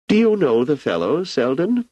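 put-on an ageing emperor musing easily to an old friend; Emperor Cleon.

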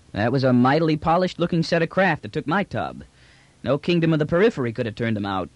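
grudgingly admiring trader; brash trader, impressed. Acted. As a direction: size up the rival craft like an old hand.

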